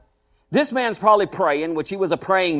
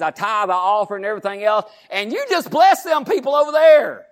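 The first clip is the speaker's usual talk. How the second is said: complaining believer. Retold or imitated. Voicing complaining believer to God.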